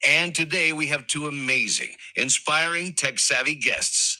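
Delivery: podcast host intro. Shown as a demonstration. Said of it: "let me show you how it should be done".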